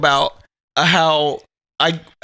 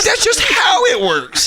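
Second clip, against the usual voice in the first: higher, slow, mock matter-of-fact; teasingly slow, higher matter-of-fact line; mock deadpan; 13 semitones higher, slower than usual. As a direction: drag it out as if it explains everything. Retold own deadpan answer.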